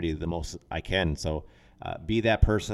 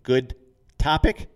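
bright eager question; 7 semitones higher, 6 dB louder, slower than usual. Real, not acted. Asks cohost for closing thoughts.

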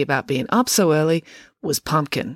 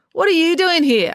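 surprised; 12 semitones higher, 5 dB louder than usual. Acted. Surprised to see classmates.

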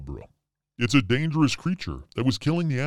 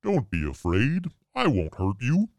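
Bigfoot voice. Acted. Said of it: "I already forgot Bigfoot's voice".

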